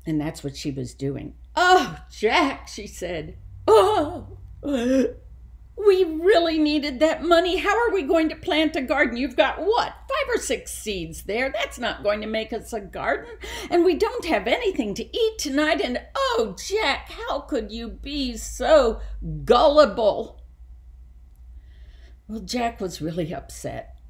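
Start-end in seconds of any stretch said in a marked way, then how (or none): 1.6-2.7 high, wailing mother's cry. A narrator's reading. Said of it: "burst into tears". 3.7-20.4 high, loud tearful wailing; crying mother. A narrator's reading. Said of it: "burst into tears".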